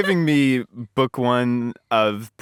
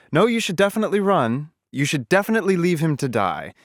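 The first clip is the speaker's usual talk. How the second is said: higher, overdone persuading; laying it on thick; 6 semitones higher than usual. Retold or imitated. Bartimaeus urging Kitty to flee, laid on thick. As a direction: push her hard, mock earnest. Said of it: "lay it on a little thick".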